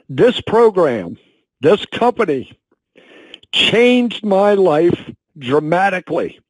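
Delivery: slow, halting, emotion catching in the throat; fighting back tears while speaking slowly; choked up. Real, not acted. Sales director telling his company story, voice choking up. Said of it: "I'm getting a little choked up".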